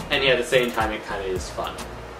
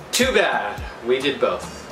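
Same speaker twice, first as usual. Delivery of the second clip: theatrical magician; slower than usual. Pretend. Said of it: "it's a nice expression".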